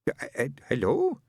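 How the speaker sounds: a dead man's hesitant voice; another voice. Acted. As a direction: stammer it out in someone else's voice. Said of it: "in another voice".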